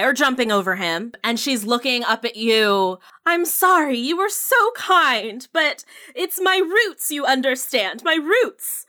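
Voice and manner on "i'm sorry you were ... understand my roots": high apologetic lady. Acted. Madam voiced apologizing.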